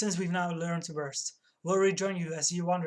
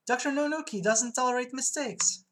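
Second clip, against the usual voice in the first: higher, hammed-up dread; distressed; 6 semitones higher, 3 dB louder than usual. Clerk fearing her boss, acted distress. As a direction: pitch it up in mock panic.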